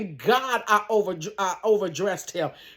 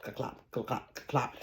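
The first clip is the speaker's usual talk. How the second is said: clopping sounds; 10 semitones lower, 14 dB quieter, slower than usual. Shown as a demonstration. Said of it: "Baby, I'm clopping. Look".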